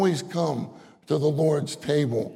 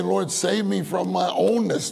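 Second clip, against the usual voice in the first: raised, pleading prayer voice; eager praying believer; 4 semitones higher than usual. Pretend. Preacher voicing a believer's eager prayer. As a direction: beg the Lord like a hopeful believer. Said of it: "We say".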